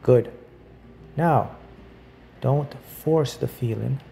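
measured guided visualization with long pauses; unhurried meditation guide. Acted. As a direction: lightly guide the listener through each image, pausing between phrases.

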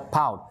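"pound" with the N barely sounded; N released very fast. Shown as a demonstration. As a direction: say "pound", skipping quickly over a near-silent N. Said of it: "Bật rất nhanh chữ N đi, không ra âm luôn".

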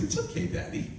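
put-on very high, soft child voice; forgiving little girl. Daughter forgiving her apologizing father, tiny high voice. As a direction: imitate a small daughter, light and tiny. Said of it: "this smile comes on her face".

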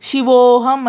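శివోహం slowly, with a stretched ఓ; rounded long o. Shown as a demonstration. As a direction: hold the ఓ in శివోహం, rounded towards u. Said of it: "కొంచెం ఉకారం దొర్లుతుందన్నమాట".

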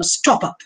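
"stop up" with the weight on "stop"; stress on STOP. Shown as a demonstration. Lecturer repeating the trochee for students, "stop" emphasized. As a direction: lean hard on "stop", keep "up" lighter. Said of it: "The emphasis on stop".

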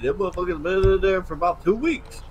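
put-on slurred words, drunk; slurring drunk. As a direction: slur every word like you're wasted. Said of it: "You're slurring all your words".

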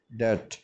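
डेट said "det" with no b; silent b. Shown as a demonstration. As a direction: say डेट dropping the b. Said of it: "तो ये होगा डेट". (डेट बिना बी के)

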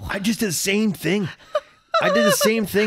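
cracking up, high and breaking with laughter; laughing. Real, not acted. Host admits the same clumsy mishap to co-host, laughing. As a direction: blurt it out through real laughter.

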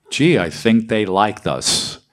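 put-on Brooklyn accent. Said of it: "because I got a Brooklyn accent".

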